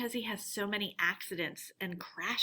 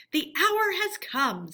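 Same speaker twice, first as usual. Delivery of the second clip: slow, higher grave pronouncement; solemn badger; 7 semitones higher, 4 dB louder, slower than usual. Badger arriving to warn friends, slow and solemn. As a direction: weigh each word like a verdict. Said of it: "said the badger at last".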